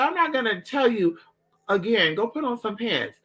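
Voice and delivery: high, stern mock aunt; scolding aunt. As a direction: raise the voice to scold. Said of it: "she said".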